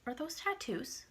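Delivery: soft date question. Retold or imitated. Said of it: "he goes".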